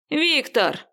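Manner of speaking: high strangled cry of the name; desperate cry. Acted. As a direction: call for help, choking. Choked man cries out. (сдавленный крик, высоко)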